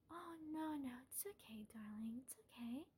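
soft hushed reassurance, half whispered; calm them down gently, almost a whisper; soothing comfort. Acted. To the upset captive, soft hushed comforting.

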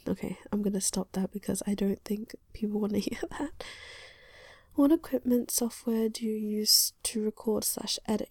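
hushed whispered chat; whispering. Real, not acted.

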